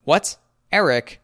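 high, loud whiny protest; whining. A narrator's reading. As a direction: whine in dismay at being defied. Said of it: "the warden whines".

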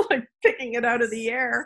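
words lifted by a real laugh. Real, not acted. Guest explaining sudden inspiration to host, laughing. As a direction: say it through an amused laugh.

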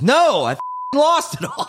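high exasperated mock cry of loss; mock pissed-off Norm. Norm answering the opener after losing, high mock exasperation. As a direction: yelp it high like a sore loser. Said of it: "He goes".

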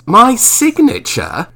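puzzled, can't believe the request; bemused surprise. A narrator's reading. Marlowe bemused.

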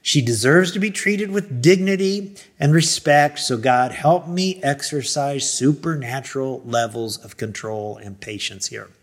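retold prayer for self-control; praying. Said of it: "So I just started praying".

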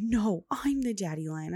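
mildly whiny imitation of a toddler's protest; welling-up child. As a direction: imitate a child insisting, close to tears. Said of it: "well up, right? She's like".

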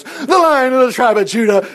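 high, grandly announced title; hammed-up revelation; mock proclamation. Mocking a hasty interpretation.

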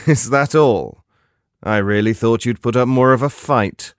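mocking slasher killer. Killer mocks fallen victim.

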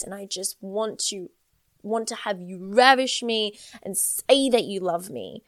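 a touch of yearning, a frustrated sigh on babe; lightly voiced frustrated longing for a partner; yearning plea. Woman tells her partner she feels jealous, mild yearning plea. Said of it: "a different kind of expression of yearning".

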